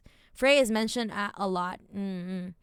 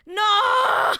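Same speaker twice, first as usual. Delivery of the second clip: shocked no; 9 semitones higher, 7 dB louder than usual. Real, not acted. Shocked at the plan.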